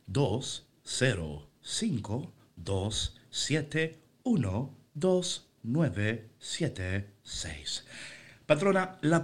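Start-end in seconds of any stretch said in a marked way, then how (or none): 0.1-7.9 very slow, mechanical robot readout, fading off; toy robot voice. Shown as a demonstration. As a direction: drag out each digit like a machine. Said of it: "Yo soy en esta mañana esa voz".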